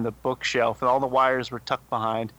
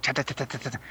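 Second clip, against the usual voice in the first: chewing noise; 6 dB quieter, much faster than usual. Retold or imitated. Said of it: "like, chewing".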